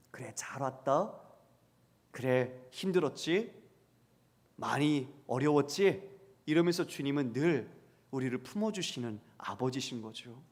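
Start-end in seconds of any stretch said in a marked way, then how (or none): 0.1-6.1 welcoming father. Acted. Gentle father welcoming prodigal son.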